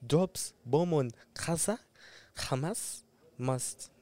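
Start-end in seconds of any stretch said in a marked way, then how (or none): 2.4-3.9 put-on slow Arabic accent, guttural H; Arabic accent, drawn out. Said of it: "That Arab accent just mashes me up".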